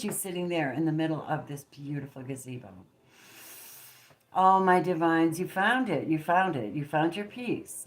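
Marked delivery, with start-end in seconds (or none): 4.3-7.8 loud, slow, joyful exclaim; delighted. Real, not acted. Reader rejoices that the viewer found peace, loud and delighted. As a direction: burst out with delight at the discovery.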